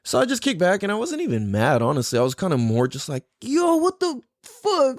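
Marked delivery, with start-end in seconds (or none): 3.4-5.0 high, slow, incredulous exclamation; retold shock. Kid looking at own broken arm, shocked. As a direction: draw it out high, mimicking your stunned reaction.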